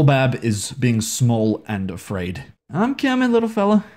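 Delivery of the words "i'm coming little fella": high, sing-song cooing to a frightened little creature; cooing to a pet. Real, not acted. Gamer coaxing his scared companion, high cooing.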